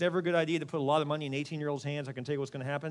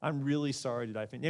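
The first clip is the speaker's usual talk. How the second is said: softened, earnest sorry; sincere apology; 3 semitones lower than usual. Shown as a demonstration. Preacher showing the apology with the if taken out, sincere. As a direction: offer a plain, heartfelt apology. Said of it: "replace it with that".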